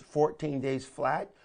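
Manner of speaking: slow, deliberate weight on "fourteen days flat"; emphasized words. Shown as a demonstration. Coach showing which headline words to emphasize, "fourteen days flat" stressed. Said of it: "if you emphasize the words".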